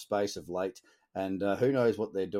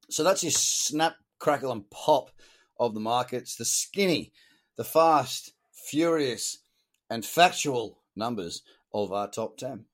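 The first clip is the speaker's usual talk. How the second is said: punchy sign-off; 4 dB louder than usual. Real, not acted.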